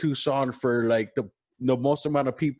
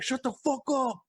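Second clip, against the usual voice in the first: imitated annoyed crowd; 8 semitones higher, 4 dB quieter than usual. Crowd snaps at screaming drunk.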